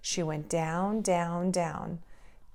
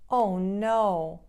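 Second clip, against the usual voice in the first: dismayed; 3 semitones higher, much slower than usual. Acted. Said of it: "she cried".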